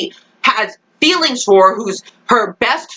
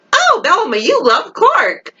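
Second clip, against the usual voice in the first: mock gushing; 7 semitones higher than usual. Fan recalling Bellamy and Clark's bond, mock gushing. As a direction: gush it in an exaggerated high voice. Voicing the earlier romance, mockingly.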